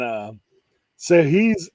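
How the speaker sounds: ordinary delivery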